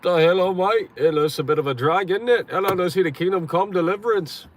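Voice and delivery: mock British accent. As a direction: put on a silly British "hello, mate" voice.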